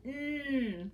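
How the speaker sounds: held "mm" for the n; isolated sound. Shown as a demonstration. Teacher confirms the first sound, "mm" held long. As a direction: sustain "mm" on its own. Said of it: "What was the first sound you heard?".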